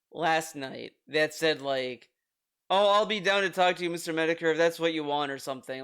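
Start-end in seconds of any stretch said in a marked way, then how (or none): 2.7-5.3 imitating a brisk brush-off, trailing lower; mock a dismissive reply to an interview request. Retelling Phil's tweet to Medicare, mildly dismissive. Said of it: "he made it sound very, uh, dismissive".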